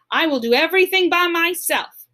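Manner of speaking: lightly voiced grumpy bear insisting; mild mock yell. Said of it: "yelled Grumpy Bear".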